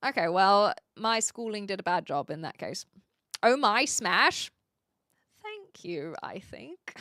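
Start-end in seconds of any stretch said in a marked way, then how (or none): 5.4-6.9 whisper. Real, not acted. Unsure thanks aside.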